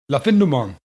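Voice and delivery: "La Fin du Monde" imitated with a French accent, nasal vowels and a silent final d. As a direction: retell the cast member's cool French accent on "La Fin du Monde". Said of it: "she had this cool French accent".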